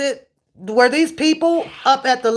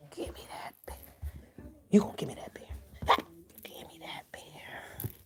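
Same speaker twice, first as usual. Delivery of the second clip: soft coaxing whisper; 5 semitones lower, 18 dB quieter, faster than usual. Real, not acted. Whispering to her dog to hand over the bear.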